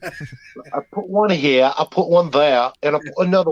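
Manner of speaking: a very slow, drawn-out imitation of a guest; dragging the words out slowly to mock her; slow mocking parody. Host mocks the doll owner, drawing out the words slowly.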